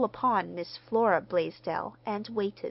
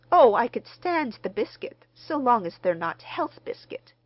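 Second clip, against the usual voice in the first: genial laugh; 5 semitones higher, 8 dB louder than usual. Acted. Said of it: "laughed Mister Smith genially".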